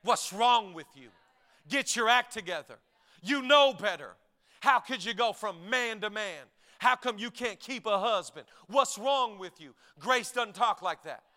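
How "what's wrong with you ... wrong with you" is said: lightly hammered-out stern rebuke; scolding religion. Retold or imitated. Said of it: "religion throws the book at her".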